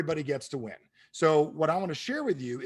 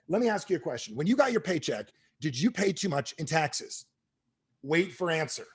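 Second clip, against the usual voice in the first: reciting a sales script, directions included; mock novice sales pitch; clueless script reading. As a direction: read it all aloud like a green rookie. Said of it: "Literally, this was my script".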